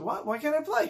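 acted schoolboy indignation; indignant protest. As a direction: protest like a left-out kid. Left-out boy protests in quarrel.

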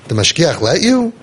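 measured read-aloud storytelling; story narration. A narrator's reading. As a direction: read the tale out in evenly phrased sentences.

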